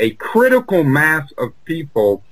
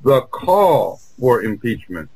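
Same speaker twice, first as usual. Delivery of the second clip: slower, with "call" drawn out and weighted; stress on call; slower than usual. Shown as a demonstration. Guest showing how to phrase it, stress on "call". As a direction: land on the word "call", unhurried. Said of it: "we emphasize just what you did".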